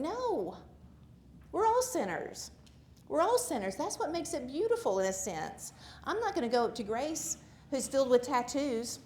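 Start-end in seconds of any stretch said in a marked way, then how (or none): 0.0-5.7 emphatic preaching. Real, not acted. Speaker tells the congregation everyone sins, emphatically. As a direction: drive the point home to the room.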